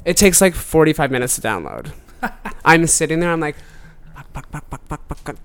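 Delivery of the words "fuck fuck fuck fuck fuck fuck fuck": much softer string of swears under the breath; impatient muttering. Retold or imitated. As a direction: fret quietly while waiting. Impatient waiting for download.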